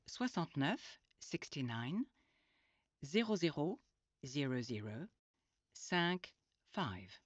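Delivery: each French number said then translated; patient number drill; French then English numbers. Shown as a demonstration. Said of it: "She was asked her postcode".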